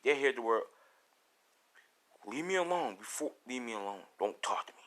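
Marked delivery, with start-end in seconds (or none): 2.3-4.8 hushed, mildly menacing; quiet, simmering order; hostile warning. Acted. Deku warns classmates off.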